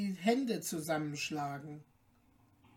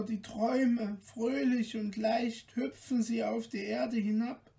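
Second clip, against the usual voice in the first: put-on lightly raised, gently pleading girl's voice; young daughter's voice; 4 semitones higher than usual. Märchen speaks to her mother.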